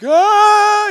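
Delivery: sudden high loud scream of someone jolted awake; startled waking scream; imitated startled scream. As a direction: scream like waking mid-wreck. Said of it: "the person wakes up like".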